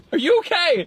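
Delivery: retold concern. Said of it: "I'm just sitting there like".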